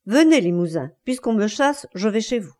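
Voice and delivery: understated defiance; clear, defiant voice. Acted. Wife calls her lover away, in a clear voice. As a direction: say it out clearly, with bravado. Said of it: "Elle dit d'une voix claire".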